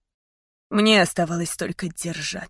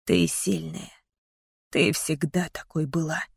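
gentle comfort; 2 semitones lower, 5 dB quieter than usual. A narrator's reading. Father comforting daughter.

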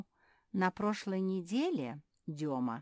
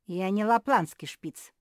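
loud angry denial, higher; angrier retort; 4 semitones higher, 11 dB louder than usual. Acted. Beatrice furious at being called a Lapland spitz, loud. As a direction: bite off each word in fury. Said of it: "ещё сильнее разозлилась Беатриса".

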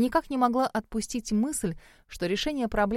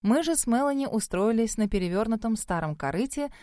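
ordinary delivery

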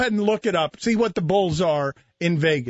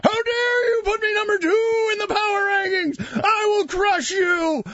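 barbarian; 12 semitones higher than usual. Retold or imitated. Mocking an enraged Heat fan.

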